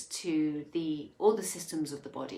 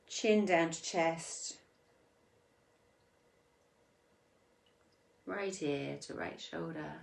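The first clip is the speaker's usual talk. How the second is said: spaced-out instructions, growing softer; guided meditation; 5 dB quieter than usual. Acted. Guides slow neck circles.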